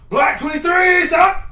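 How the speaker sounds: high, loud, slow drawn-out snap count; own cadence shout. Pretend. Player calling his own cadence, high drawn-out shout. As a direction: stretch the number high, then punch the last word. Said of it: "I'm finna do my own cadence".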